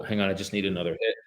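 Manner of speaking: quick, hushed druggie mutter; rushed, low street dealer voice. Real, not acted. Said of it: "I sound like a drug dealer".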